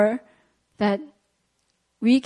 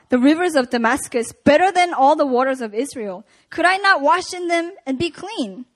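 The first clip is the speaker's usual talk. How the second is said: raised, indignant reading; reading Naaman's anger. Acted. Preacher reads Naaman's angry reply, mildly indignant. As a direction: let Naaman's grievance swell. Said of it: "Naaman was angry and went away, saying".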